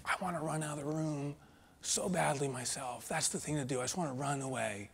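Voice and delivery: hushed whisper of inner thought; unvoiced, soft whisper. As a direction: breathe it like a secret wish. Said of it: "And I remember, I was like".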